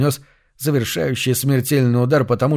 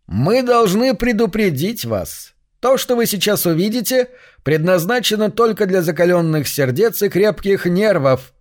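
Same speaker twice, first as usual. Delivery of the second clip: eldritch horror; 7 semitones higher than usual. A narrator's reading. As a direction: speak as if from underground. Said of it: "Голос звучал приглушённо, словно из-под земли".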